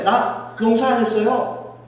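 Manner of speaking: acted-out self-excusing claim; feigned innocence. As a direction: plead innocent to God, drawn out. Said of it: "그리고서 하나님한테".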